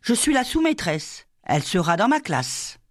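voix aiguë et avenante; jeune maîtresse aimable. Acted. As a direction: se présenter gentiment à la mère. La sous-maîtresse se présente. (la sous-maîtresse se présente à Madeleine, voix aiguë)

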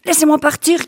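put-on high frightened child's cry; a boy begging to be let go. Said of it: "cria-t-il".

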